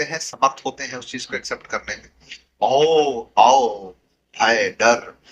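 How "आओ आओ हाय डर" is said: startling tone. Retold or imitated. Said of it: "बोला ऐसा tone कि पूरा एस्टोनिश कर दिया".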